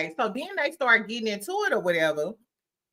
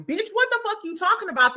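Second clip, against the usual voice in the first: mock outrage; 10 semitones higher, faster than usual. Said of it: "So after Quad was like".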